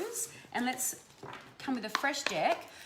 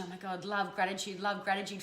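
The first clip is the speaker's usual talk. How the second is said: softer, lower, savouring the love; soft heartfelt gratitude; felt gratitude; 5 semitones lower, 5 dB quieter than usual. Shown as a demonstration. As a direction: breathe in the gratitude. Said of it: "So connect to that emotion".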